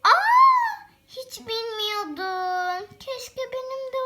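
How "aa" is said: surprised. Pretend. Surprised exclamation.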